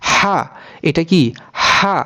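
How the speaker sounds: হা from a tightened throat; হা as a strong pharyngeal h; throat-squeezed HA. Shown as a demonstration. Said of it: "একটু গলা চিপে".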